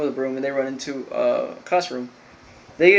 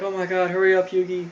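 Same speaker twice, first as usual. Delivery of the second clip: higher-pitched mock panic; urgent but lightly acted plea; retold freak-out; 4 semitones higher than usual. Joey holding up the plank, mock panicked urging. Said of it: "he's, like, freaking out".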